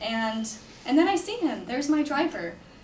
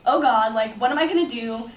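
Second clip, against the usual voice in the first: loud burst of mild panic; retold panic; 6 dB louder than usual. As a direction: exclaim as if suddenly stranded. Retold panic at being stranded.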